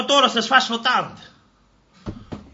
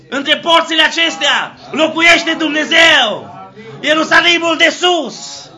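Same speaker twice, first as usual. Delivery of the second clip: fervent preaching. Acted. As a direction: call it out with rising fervor. Preaching in full flow.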